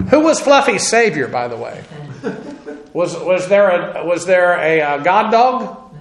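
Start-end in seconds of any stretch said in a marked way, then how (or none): 0.1-1.8 laughing. Real, not acted. Mocking a pet's salvation, laughing.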